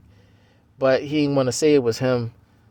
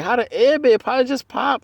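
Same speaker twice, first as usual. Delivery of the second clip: imitating girlfriend; 11 semitones higher than usual. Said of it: "she probably was thinking".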